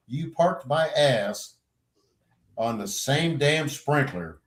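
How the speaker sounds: slow, deliberate complaint; drawn-out mock reproach; retold accusation. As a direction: lay out the blame in measured chunks. Complains to drum major, retold.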